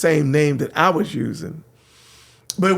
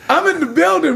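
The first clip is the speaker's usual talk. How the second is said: hyped catchphrase; 13 semitones higher than usual. Retold or imitated. DJ repeating his arrival line to the host, hyped. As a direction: announce it like a hype man.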